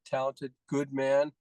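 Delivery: slow, with weight on "good"; stress on good. Real, not acted. Host praising Mick, hitting "good" slowly. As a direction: lean into the word "good" in "good man". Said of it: "I emphasize the word good".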